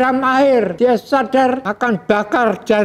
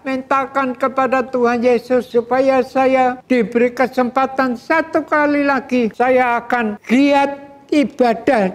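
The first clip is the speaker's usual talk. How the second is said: raised, desperate begging, lightly voiced; a sinner in hell begging for one more chance; pleading damned soul; 2 semitones higher than usual. Damned man begs Abraham for another chance, raised pleading. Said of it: "minta kepada Bapak Abraham".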